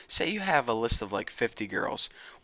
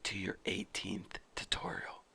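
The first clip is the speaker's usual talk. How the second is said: hushed mock-meditation whisper; 3 semitones lower, 8 dB quieter, much slower than usual. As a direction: whisper it like a secret. Mock meditation opening, hushing.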